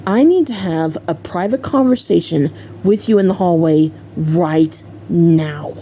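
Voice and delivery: controlled, stern order, dropping at the end; understated anger, measured and deliberate; retold mad mom. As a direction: imitate a mother laying down the law. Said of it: "she really looked mad at John".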